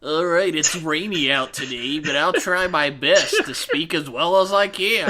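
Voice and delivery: loud put-on English accent of the actor; hammed-up careful English accent; imitated English accent. Actor obliging talk show hosts, imitated English accent. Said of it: "that's how everyone sounds when they speak English".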